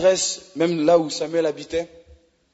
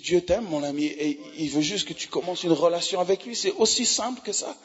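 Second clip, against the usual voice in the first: tender reassurance; 5 dB quieter than usual. Retold or imitated. Tender words to weeping man.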